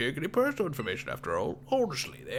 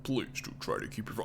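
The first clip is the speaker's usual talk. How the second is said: hacker voice; 5 dB quieter than usual. Acted. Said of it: "wait, that was my hacker voice".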